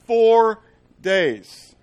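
four punched loud; loud slow declaration; loud emphatic. Acted. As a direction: shout four days.

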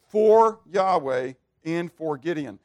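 slow, each word weighed in "For Yahweh and for Gideon"; slow emphatic reading. Shown as a demonstration. Preacher giving the true Hebrew wording, slow and weighed. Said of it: "What it says is".

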